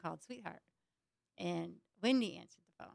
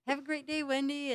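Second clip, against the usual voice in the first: higher-pitched sign-off; phone goodbye; 8 semitones higher, 5 dB louder than usual. Retold or imitated. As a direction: act out a high phone farewell. Acts out ending the phone call.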